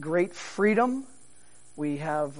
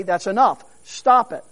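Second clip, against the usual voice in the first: firm parental stop-it, louder; a parent cutting a child off, louder; parent scolding; 5 dB louder than usual. Retold or imitated. Parent telling child to stop, mildly stern. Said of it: "how your parents would often say".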